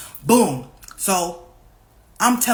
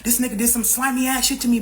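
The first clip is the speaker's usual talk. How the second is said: higher-pitched, worked-up complaint; retold angry rant; 4 semitones higher than usual. Upset woman calling her friend, retold angry rant. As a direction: vent it as a retold outburst. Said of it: "I'm in my emotions. I'm going the fuck off".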